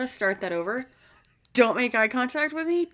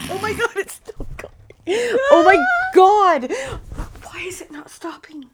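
helpless laughter; 10 semitones higher, 7 dB louder than usual. Real, not acted. Laughing so hard she is peeing.

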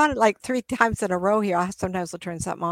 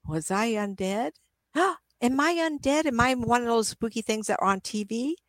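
lost soul wondering; 5 semitones higher than usual. Retold or imitated. Lost soul voiced, gasp.

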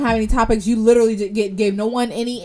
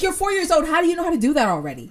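mock disbelief; 7 semitones higher, faster than usual. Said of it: "And I was like".

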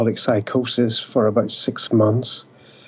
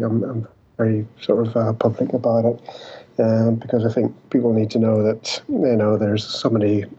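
choppy internet audio; bad connection. Real, not acted. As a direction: voice breaking up over a call. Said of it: "You're breaking up".

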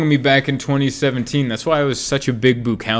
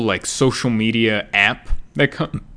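burp cuts into the words. Real, not acted. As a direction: talk through a burp. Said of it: "I'm burping".

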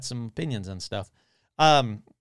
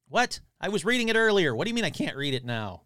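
raised, protesting tone, pitch jumping up at first; indignant disbelief; 5 semitones higher than usual. Real, not acted. Podcaster to a web page that won't load, indignant. Thwarted by an article that won't open.

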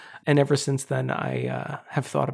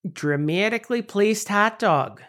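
mock Chicago accent, slightly raised; 3 semitones higher than usual. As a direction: say it as a pretend Chicagoan. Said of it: "we haven't done a single Chicago accent".

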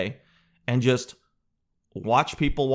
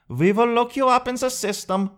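high, stiff clerk voice; mock prim cashier; officious clerk; 10 semitones higher than usual. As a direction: threaten him sweetly by the rules. Cashier threatening.

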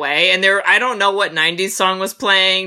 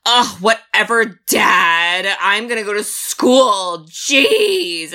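mock bratty teen; slower than usual. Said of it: "And she's like".

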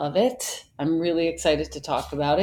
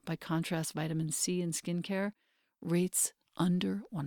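measured, softer host-read advertisement; sponsor ad read; 7 dB quieter than usual. Real, not acted. Host recommending skincare to her community, measured ad read. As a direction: read a personal endorsement with deliberate pauses.

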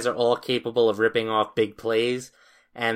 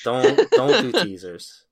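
slow, laughing, a little louder; laughing warning; 4 dB louder, slower than usual. Real, not acted. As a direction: repeat it slowly through a laugh.

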